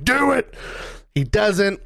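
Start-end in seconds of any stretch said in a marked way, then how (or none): 0.0-0.5 Stone Cold taunt. Retold or imitated. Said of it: "and he's like".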